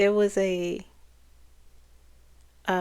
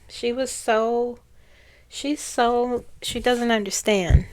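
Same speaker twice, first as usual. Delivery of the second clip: ordinary talk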